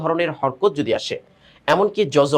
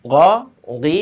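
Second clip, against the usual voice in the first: loud drill recitation; 3 dB louder, slower than usual. Shown as a demonstration. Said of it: "তাড়াতাড়ি".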